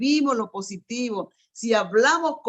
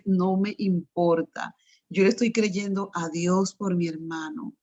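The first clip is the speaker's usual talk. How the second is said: calm firm faith; 3 semitones lower than usual. Retold or imitated. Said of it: "un día le dije".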